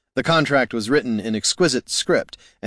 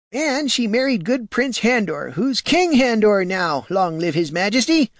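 put-on high, eager old country farmer; a rustic old man spinning a hero tale; 11 semitones higher than usual. Old farmer boasting to the warrior, high and eager.

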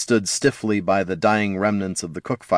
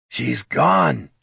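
distraught troll; 6 semitones higher than usual. A narrator's reading. Troll telling the dwarf she left, distressed lament. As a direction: tell a friend of the loss in distress. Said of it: "said Thane".

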